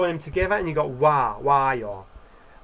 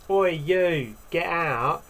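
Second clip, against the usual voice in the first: rude, slightly raised call; rude order; much slower than usual. Shown as a demonstration. Teacher showing what not to say to someone, rude order. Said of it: "we don't say much like".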